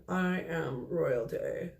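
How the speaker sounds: slow, proud, grand announcement; regal dog voice. Retold or imitated. Medium voicing the dog's proud claim, slow and regal. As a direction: savour each word like a crowned dog. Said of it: "this dog is going".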